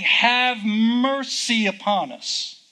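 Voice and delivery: understated imploring call; crying out. Acted. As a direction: imitate a cry for mercy, slowly. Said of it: "all the time they're crying".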